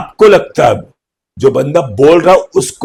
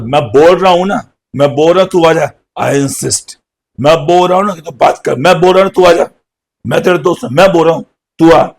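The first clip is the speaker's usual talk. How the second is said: louder, higher pushy friend; insisting friend; 4 semitones higher, 4 dB louder than usual. Retold or imitated. Friend insisting the other one come over, pushy. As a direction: press your friend to come, won't take no. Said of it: "insist का मतलब होता है जिद करना".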